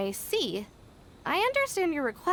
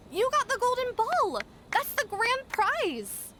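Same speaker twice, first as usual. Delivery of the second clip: booming prize announcer; 6 semitones higher, slower than usual. Acted. Lucky draw prize announcement.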